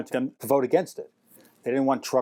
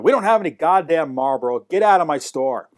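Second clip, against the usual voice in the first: louder, irate retold refusal; imitated anger; 3 semitones higher, 5 dB louder than usual. Shop owner to a customer asking for Marlboro, imitated anger. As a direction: turn the customer away with mock fury. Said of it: "He was so angry".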